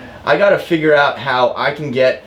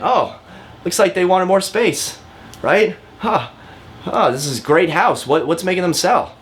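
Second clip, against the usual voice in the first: gentle; 6 semitones higher than usual. Shown as a demonstration. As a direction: ease the question out kindly so nobody feels cornered. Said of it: "just something so gentle".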